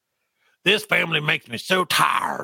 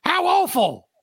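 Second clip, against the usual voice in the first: put-on much higher, sing-song young woman teasing; high girlish voice. Ada mocking grandfather about being thankful, high teasing girl's voice. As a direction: tease grandpa sweetly, pitched up high. Ada reacts to stew dinner.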